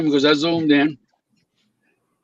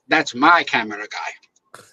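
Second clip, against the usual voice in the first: slow, drawn-out mock-firm claim; laying down the law; slower than usual. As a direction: retell a girl firmly staking her claim, slowly. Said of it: "she laid the law down".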